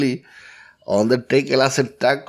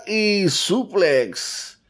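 drawn-out call; 5 semitones higher, much slower than usual. Real, not acted.

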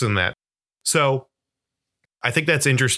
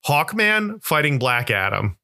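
usual speaking voice

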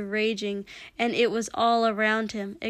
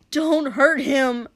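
loud, raised, drawn-out shout; snapped; 4 semitones higher, 8 dB louder, slower than usual. A narrator's reading. Shoto protecting his brother, snapped shout. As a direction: shout a fierce protective order. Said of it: "Shoto snapped".

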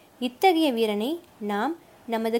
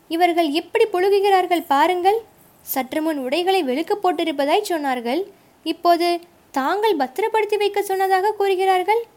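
much higher, louder outraged accusation; 7 semitones higher, 5 dB louder than usual. A narrator's reading. Young warrior denouncing the lying guards to commander, loud outrage. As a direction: shout them down as liars.

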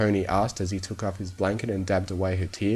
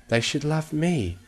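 high-pitched hurt hiss; high, aggrieved character voice; 7 semitones higher than usual. A narrator's reading. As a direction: insist bitterly, pitched high. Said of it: "she hissed".

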